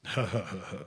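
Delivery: low, soft fake chuckle; quiet, feigned nonchalant laugh; put-on cool laugh. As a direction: laugh it off, playing outwardly cool. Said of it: "und äußerlich so".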